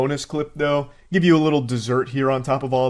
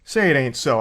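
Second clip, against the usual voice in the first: higher-pitched feigned astonishment; sarcastic mock shock; 4 semitones higher than usual. Commentator mocking a streamer as a coward, in sarcastic mock shock. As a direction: act amazed, dripping with sarcasm.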